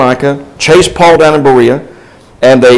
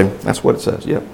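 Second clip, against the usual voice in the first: breathy whisper, much softer; whispered aside; 4 semitones lower, 10 dB quieter than usual. Retold or imitated. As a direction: whisper it to yourself while checking the page. Reader checks the Bible.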